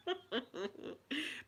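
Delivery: high but soft spluttered laugh; laugh escaping. Shown as a demonstration. Showing held-up laughter let out, spluttering laugh. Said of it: "it really blasts".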